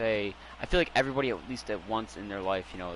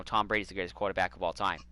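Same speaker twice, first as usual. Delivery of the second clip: mock Boston accent; 4 semitones lower, 4 dB quieter than usual. Shown as a demonstration. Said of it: "start talking like this".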